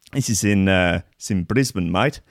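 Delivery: half-hearted hybrid South African Australian twang. Retold or imitated. Host repeating the plane story's location, mock South African Australian accent. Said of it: "that was a sort of hybrid South African Australian there".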